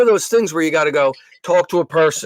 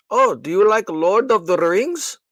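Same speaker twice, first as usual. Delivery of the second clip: mock agent voice; 5 semitones higher, slower than usual. Imitating the agent's small talk.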